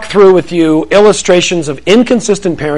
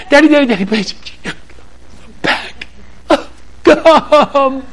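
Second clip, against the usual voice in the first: put-on whiny kid; 8 semitones higher, 3 dB quieter, slower than usual. Kids begging.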